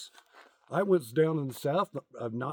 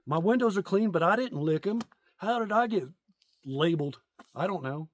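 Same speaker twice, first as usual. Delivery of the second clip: higher, mock-indignant self-defense; indignant musing; 4 semitones higher than usual. Comic retelling his inner protest about being labeled, higher indignant tone. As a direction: protest your innocence to yourself. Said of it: "and I'm like".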